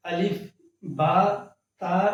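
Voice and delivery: الف، با، تا said as Arabic letter names, short open vowels. Shown as a demonstration. Teacher reciting Arabic letters to students, slow and clear. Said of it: "تا کر کے پڑھتے ہیں".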